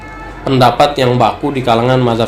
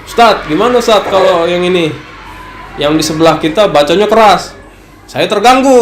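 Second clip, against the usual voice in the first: imitated complaint; 5 semitones higher than usual. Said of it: "suka ngadu lah".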